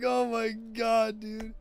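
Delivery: high, loud, drawn-out exclamation; loud retold disbelief. Storyteller reliving his shock at a friend's line, loud high disbelief. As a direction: blurt it out, stretching the shock.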